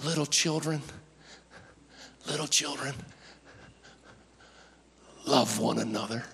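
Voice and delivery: put-on very soft, halting old man's voice; aged apostle gently addressing his flock; old man John. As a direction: speak feebly and tenderly, with long pauses. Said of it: "this is how he talks".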